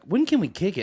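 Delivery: imitating the kids. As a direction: ask it like an eager kid. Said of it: "They're cool till they're like".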